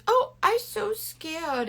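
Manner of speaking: high, drawn-out pretend scared; mock a grown man faking fright; ridiculous mock fear. Mocking a man on steroids acting scared, ridiculous mock fear. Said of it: "he was being ridiculous".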